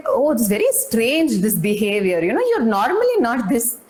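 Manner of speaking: a hint of teasing wonder at his mood; half-hearted amazed lover; mock surprise. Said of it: "She's like".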